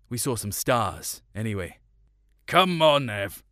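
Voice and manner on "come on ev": rallying. A narrator's reading. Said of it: "Dad said and gave him a slap".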